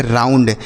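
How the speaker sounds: "राउंड" with ou sounded as "आऊ"; ou read as au. Shown as a demonstration. Teacher shows children that ou says au, "राउंड" modelled clearly. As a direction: say "राउंड" with an open au glide. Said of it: "इसे पढ़ेंगे".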